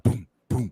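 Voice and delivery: spoken booming party beat; imitated bass thump. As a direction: mimic muffled bass thumps. Imitates party bass through walls.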